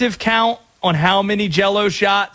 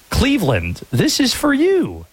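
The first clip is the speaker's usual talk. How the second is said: LeBron James; 7 semitones higher than usual. Retold or imitated. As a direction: stretch it out high, like a dedication to the city. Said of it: "as LeBron once said".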